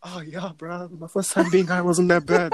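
lightly acted stoner. Acts out a newly high friend.

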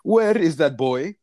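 retold scream. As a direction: imitate an angry customer calling out, slowly. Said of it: "he's screaming".

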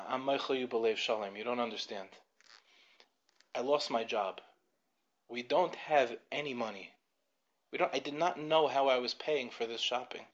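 retold tearful confession. Crying man confesses to the businessman, subdued understated sadness. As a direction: confess it quietly, without actual sobbing. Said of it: "He's just crying".

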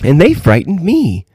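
high, lilting voice with a smile; smiling. A narrator's reading. Princess answers the old lady, smiling. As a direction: say it through a smile, pitched high. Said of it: "smiling too".

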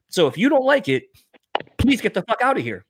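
high-pitched mock dismissal, dropping at the last repeat; retold yelling. Bouncer telling an offended man to leave, retold yelling. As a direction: re-enact ordering him out, pausing before each plea. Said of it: "yelling at this dude".

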